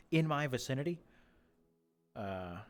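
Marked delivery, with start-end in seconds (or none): 2.1-2.6 hushed whisper to the swans; a whispered reporter's approach; sneaky whisper. Pretend. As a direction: creep up and whisper the request.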